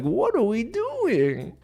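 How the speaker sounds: exasperated. Real, not acted. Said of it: "host exasperated at show".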